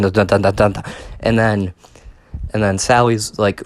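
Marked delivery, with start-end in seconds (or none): 0.0-0.8 echoing stutter. Retold or imitated. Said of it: "it sounds like".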